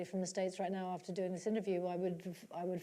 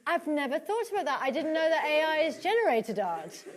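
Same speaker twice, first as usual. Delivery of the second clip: laughing; 6 semitones higher, 5 dB louder than usual. Real, not acted. Still amused after laughing.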